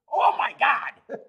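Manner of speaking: slow, drawn-out exasperated cry of oh my God; a loud, stretched groan of disbelief at the results; exasperated shout. Real, not acted. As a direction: let it burst out in frustration. Exasperated at stiffed short prices.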